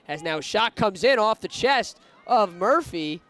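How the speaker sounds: commentator's excited rush on a close play; excited call. Real, not acted. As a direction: call the shot as it happens, lifting with the action. Shot on goal, crowd moment.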